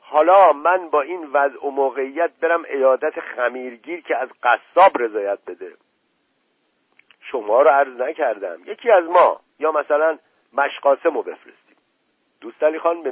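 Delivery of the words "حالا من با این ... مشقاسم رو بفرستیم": loud, indignant protest; affronted outburst, higher and louder; shouted objection. A narrator's reading. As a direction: object hotly in a raised voice. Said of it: "دایی جان ناپلون فریاد زد".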